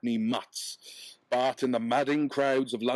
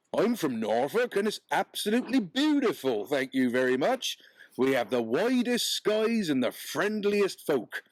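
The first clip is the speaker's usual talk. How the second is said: a hint of a higher, proud Norfolk peddler; 4 semitones higher than usual. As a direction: stick up for Norfolk, lightly voiced.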